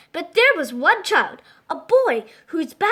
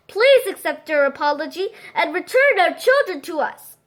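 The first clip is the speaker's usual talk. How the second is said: calling out. Acted. Mayor calls to the silent mountain, a mild raised call. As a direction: call out to the mountain, then apologise. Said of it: "called out the mayor".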